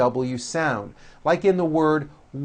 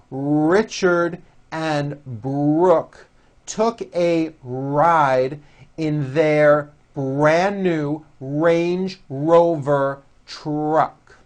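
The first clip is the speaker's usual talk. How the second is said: deliberate, slow model sentence; slow practice reading; much slower than usual. Shown as a demonstration. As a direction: read it slowly for learners to copy. Reads practice sentence slowly.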